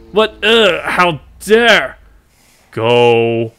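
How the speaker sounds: high, loud villain outrage; outraged villain. Acted. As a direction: snarl it in shocked fury. Villain interrupted, furious.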